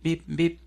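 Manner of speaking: short high beeps; imitated machine beeps. Preacher mimics rescue machinery heard under rubble, high beeping. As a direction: mimic a crane's warning signal. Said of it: "comenzó a escuchar un bip".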